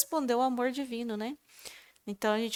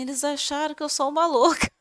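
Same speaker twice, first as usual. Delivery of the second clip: higher, louder retold lament ending in laughter; amused complaint to Jesus; 5 semitones higher, 6 dB louder than usual. Woman telling Jesus they thought her crazy, amused protest. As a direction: tell on them to the Lord, about to laugh. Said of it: "E vim falando, falei assim".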